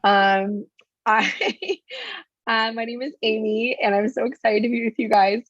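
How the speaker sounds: playing up a husky lost voice; sexy hoarse voice. Real, not acted. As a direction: lean into the raspy, sultry voice. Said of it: "it's kinda sexy, so we're just gonna play it up".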